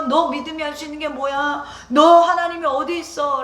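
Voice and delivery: jeering at David, stress on 너; mocking taunt. Mockers taunting David, jeering. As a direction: sneer the question at him. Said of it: "라고 조롱해요".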